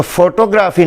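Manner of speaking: फोटोग्राफी said foto-graa-fee, long vowels; फोटोग्राफी the local mispronunciation; फोटोग्राफी as the wrong take; wrong pronunciation. Shown as a demonstration. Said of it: "नहीं होता".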